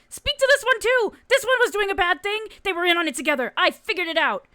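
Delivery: high, loud, agitated clown voice; loud high-pitched protest; tattling clown. Acted. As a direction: blurt it out like an indignant tattletale.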